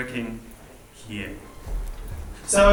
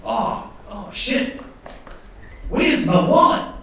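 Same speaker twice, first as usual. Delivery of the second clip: put-on Kiwi accent; 7 semitones higher than usual. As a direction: act out an alarmed New Zealander in a Kiwi accent. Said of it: "a Kiwi might say, for instance".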